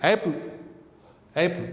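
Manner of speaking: "एप्पल" with p barely released; weak p. Shown as a demonstration. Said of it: "प पूरा sound नहीं है". ("एप्पल" में प पूरा नहीं)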